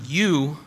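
"You" set apart with weight; emphatic YOU. Shown as a demonstration. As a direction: lean on the word "You". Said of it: "and that's emphatic".

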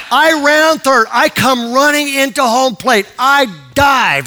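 high, loud, drawn-out play-by-play; climactic excitement. Retold or imitated. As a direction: belt out each step of the dash. Climax of the retold run.

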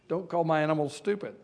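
chuckling through the words; a light laughing rebuke. Real, not acted. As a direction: laugh it off while scolding playfully. Laughing defense of the ostrich.

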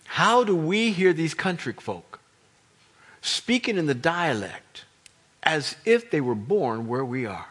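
slow country-folk drawl. Acted. Crowd puzzling over Galilean country folk, country drawl. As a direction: stretch the words in a country twang. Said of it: "They all got this drawl to 'em".

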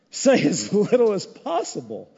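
"Say as little as possible" broken by a laugh; laughing repeat. Shown as a demonstration. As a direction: chuckle through the advice. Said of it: "repeat with laugh".

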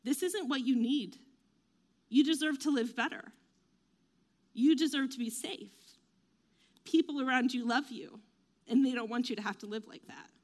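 sincere, caring psychologist reassurance; very kindly. Acted. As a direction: say each line kindly, with space between. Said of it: "they'll just very kindly say".

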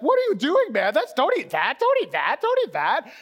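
high, loud, repeated mock alarm; frantic self-warning. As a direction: plead in panic with yourself to stop. Out-of-body self scolding the eater.

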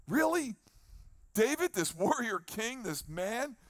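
high incredulous really; mock disbelief. Preacher questions a crying warrior king, mock surprise.

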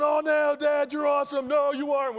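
high, loud back-and-forth shouting; shouted playful exchange, high voice; excited yelling. Retold or imitated. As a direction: yell the compliments like a thrilled duo. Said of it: "We're yelling at each other".

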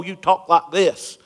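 slow, half-hearted Southern drawl; poorly faked Southern accent; bad Southern accent. Shown as a demonstration. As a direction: try a Southern twang and do it badly. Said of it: "That's my worst impression".

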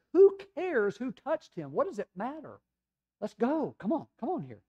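high, loud acted exasperation; frantic father's impatient outburst; exasperated impatience. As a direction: hurry him along, at the end of your patience. Jairus's impatient thoughts acted out.

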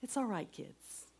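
put-on soft whisper to the children; mother whispering comfort to her kids; hushed comfort. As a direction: whisper it gently so they don't worry. Comforting kids while crying on floor.

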